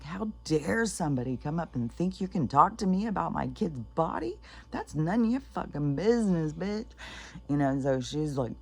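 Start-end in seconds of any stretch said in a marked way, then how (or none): 0.0-6.9 high-pitched, outraged mother's rant; imitated pissed-off rant. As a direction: act out indignant fury, pitch leaping at the peak. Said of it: "She's so pissed".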